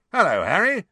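high, loud, cheery greeting; beaming. Acted. George greets Harry on arriving, beaming. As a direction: greet him with a beam. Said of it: "beaming at him".

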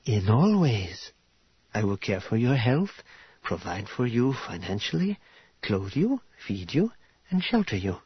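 lightly voiced, formal and approving hostess; gracious formal bride-to-be. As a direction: set out a marriage offer with measured courtesy. Voices Karya listing her offer.

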